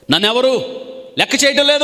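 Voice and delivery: high, loud mock lament of no one caring; a loud imitated wail of being ignored; self-pity cry. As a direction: voice the listener's complaint as an outcry. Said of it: "అని చాలాసార్లు ఇలా అనుకుంటావు".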